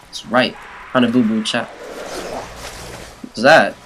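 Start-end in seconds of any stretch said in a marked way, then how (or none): 1.6-3.7 slow hushed whisper. Real, not acted. Gamer hearing a strange noise, slow whisper. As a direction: whisper it, spooked.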